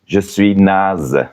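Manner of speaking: slowed, careful second take; slow demo. Shown as a demonstration. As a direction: spell it out slowly for learners. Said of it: "Je peux aussi dire".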